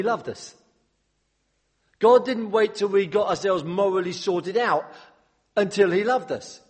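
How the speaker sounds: fervent pulpit preaching, pressing the point home; impassioned preaching. Acted. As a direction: build to a stirring climax for the congregation. Rising climax of the sermon.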